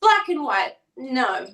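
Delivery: tarot-reading French neighbor rejecting black and white, mock French accent. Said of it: "I will stop doing that accent".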